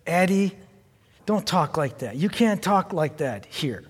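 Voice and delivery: soft, gentle grandpa telling her off; polite, quiet correction. Retold or imitated. Grandpa softly correcting his sassy granddaughter in the car, quiet. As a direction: hush it down, kindly scolding a toddler. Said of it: "I just politely said".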